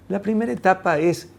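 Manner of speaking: normal talking voice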